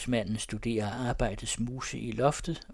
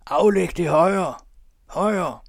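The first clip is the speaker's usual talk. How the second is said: high, very loud drawn-out heckle; shout; 7 semitones higher, 10 dB louder, much slower than usual. A narrator's reading. Audience shouts at the muffled speaker to speak up. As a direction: shout it slowly across the hall. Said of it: "Råb".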